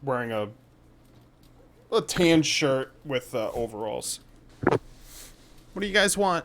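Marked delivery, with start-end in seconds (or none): 4.6-6.4 put-on slow, high child's voice; kid voice. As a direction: kid asking the question slowly and carefully. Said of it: "I love your kid voice".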